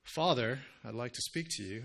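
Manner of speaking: formal, distant way to address a father; a slightly stiff, formal father address. Shown as a demonstration. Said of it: "I wouldn't say".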